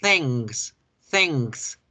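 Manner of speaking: "thanks" with a velar ng before the k; "thanks" said as thengks; correct pronunciation. Shown as a demonstration. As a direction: model "thanks" with n from the back of the tongue. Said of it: "En gracias decimos".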